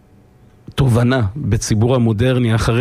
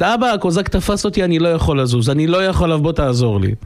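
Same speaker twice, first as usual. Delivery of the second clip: starts high, sinking to the usual pitch; mock cry for help; 4 semitones higher than usual. Captured boy begs father for help, mock cry. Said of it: "הוא מתחיל לצעוק פתאום".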